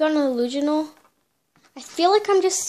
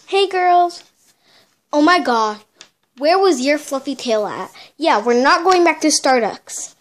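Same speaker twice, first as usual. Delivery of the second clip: loud bossy friend; 5 dB louder than usual. Acted. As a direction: call it out loudly to the girl. Friend confronts girl loudly.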